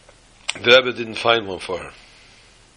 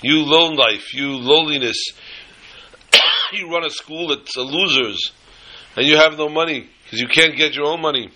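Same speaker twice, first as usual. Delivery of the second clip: condescending giver; 3 semitones higher than usual. Retold or imitated. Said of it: "a person should not say".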